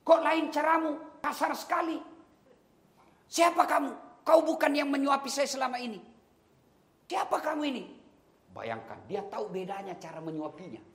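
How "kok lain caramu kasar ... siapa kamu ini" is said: much higher, sharp demanding questions; suspicious blind man. Acted. Blind man to stranger feeding him, high and suspicious. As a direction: push back, alarmed and accusing. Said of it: "langsung dia tepis".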